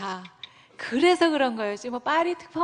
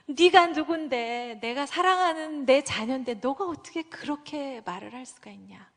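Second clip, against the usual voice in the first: hurt anger; 3 semitones higher than usual. Retold or imitated. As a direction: rebuke as a loving father. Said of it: "하나님 막 화나시는". (사랑하는 자녀를 꾸짖는 하나님)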